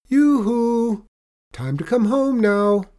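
high, loud motherly holler; calling out. A narrator's reading. Mother dragon summons Benny home, calling out high. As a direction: call a child home across the shore. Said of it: "the voice called".

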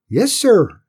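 high, obedient pipe; small squeaky Cinders. A narrator's reading. Cinders answers cross Tim, small high voice. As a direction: answer high and loud, eager to obey.

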